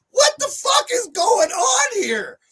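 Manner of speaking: stretched-out high shout of disbelief; incredulous yell. Retold or imitated. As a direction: yell it in total disbelief, slowed right down. Baffled outburst at the counter.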